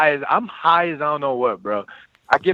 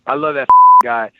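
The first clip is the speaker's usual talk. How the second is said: fond; 9 dB louder than usual. Real, not acted. Affection for Pop.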